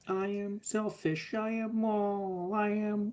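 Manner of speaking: high, slow robotic dashboard voice; drawn-out car dashboard alert; car warning voice. Shown as a demonstration. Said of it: "That's my dashboard impression".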